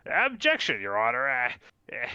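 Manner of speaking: halting mock-legal argument leaping into high pitch; hammed-up amateur lawyer with squeaky peaks; flustered defendant objecting. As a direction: argue to the judge, stumbling, voice jumping up. Plays defendant objecting in court.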